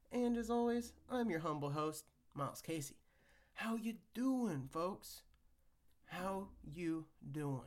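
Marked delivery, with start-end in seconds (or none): 3.5-7.6 sultry narrator. Pretend. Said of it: "smooth, sultry voice".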